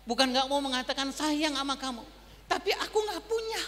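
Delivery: a helpless plea to his wife; choked confession. Retold or imitated. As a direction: voice climbs high and breaks on the last words.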